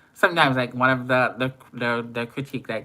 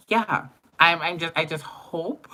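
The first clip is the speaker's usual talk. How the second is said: laughing; 7 semitones higher than usual. Real, not acted. Laughing mid-sentence on a livestream.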